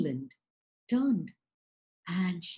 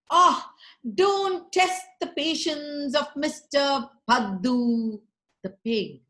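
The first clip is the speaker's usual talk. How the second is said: slow, theatrical pig threat, loud opening; hammy actor pig; 4 semitones higher, 4 dB louder than usual. Acted. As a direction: overact it like a film hero. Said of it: "And he was an actor".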